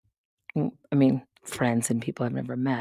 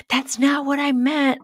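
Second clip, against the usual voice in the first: acted quote; 11 semitones higher, 3 dB louder than usual. Quoting herself yelling at him.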